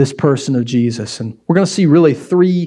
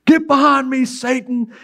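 a higher, forceful rebuke; sharp rebuke; 8 semitones higher than usual. Retold or imitated. Jesus rebuking Peter in front of the group, sharp rebuke. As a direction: snap it out so the whole group hears. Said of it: "Jesus turns where the whole group is and says".

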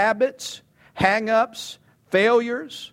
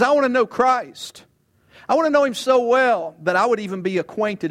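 eager voicing of Paul; 7 semitones higher, 4 dB louder than usual. Preacher voicing Paul's longing.

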